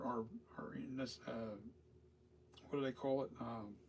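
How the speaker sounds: drops to a whisper while searching for the word; whispered aside. Real, not acted. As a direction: let the voice fall to a breath mid-search. Trailing off while searching memory.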